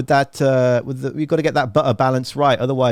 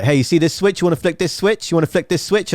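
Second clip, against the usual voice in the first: playful teasing; 5 semitones higher than usual. Retold or imitated. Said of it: "he just started having fun".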